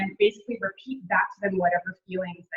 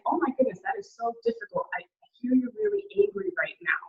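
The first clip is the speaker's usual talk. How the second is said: sympathetic validating tone; the right response, mildly sympathetic; 4 semitones higher than usual. Shown as a demonstration. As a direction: gently show them you get it. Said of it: "What you're gonna say instead is".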